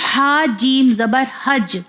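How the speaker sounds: slow demo, j of حج bounced at the end; حج closed on a doubled-sounding j; qalqalah on حج. Shown as a demonstration. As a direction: echo the last j of حج. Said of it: "تو اس کا sound دو بار آئے گا".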